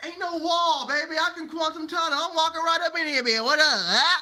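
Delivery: loud, high, swaggering boast; hammed-up defiance. Speaker defying the blockers at the wall, hammed-up bravado. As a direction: crow it while barging straight through.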